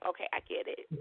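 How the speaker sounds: whispered, soft "okay, I get it"; whispered resignation. Retold or imitated. Wife hanging back on the call, whispered acceptance. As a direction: back off in a hushed aside. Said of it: "And I'm like".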